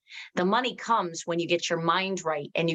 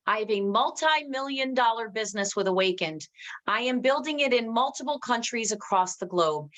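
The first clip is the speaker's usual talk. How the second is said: assured affirmation; 3 semitones higher than usual. Shown as a demonstration. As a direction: declare it as already accomplished. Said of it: "speak as if it already happened".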